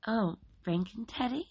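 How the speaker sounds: high, bright-voiced cheerful lady; high cheery neighbor lady. A narrator's reading. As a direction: answer sweetly like a cheerful hostess. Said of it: "replied cheerily".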